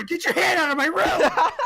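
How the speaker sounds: high squeaky puppet voice, shouted; shrill little dummy yelling; squeaky ventriloquist dummy. Pretend. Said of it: "That's so good".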